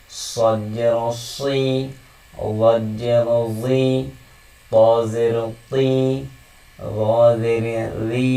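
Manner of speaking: slow, deliberate recitation of each letter; slow letter drill. Shown as a demonstration. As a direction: chant the letters slowly for learners. (ধীরে ধীরে অক্ষর পাঠ)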